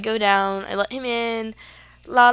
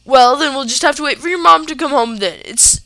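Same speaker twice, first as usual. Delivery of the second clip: cold; 4 semitones higher, 8 dB louder than usual. Retold or imitated. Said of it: "really cold".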